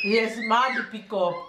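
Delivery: Jamaican patois phrase. Shown as a demonstration. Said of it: "That's the Jamaican expression for today".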